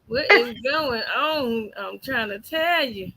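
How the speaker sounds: drawn-out question in a real Southern accent; real Southern drawl, slow on the question. Real, not acted. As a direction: stretch the vowels in an easy Southern accent. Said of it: "that accent".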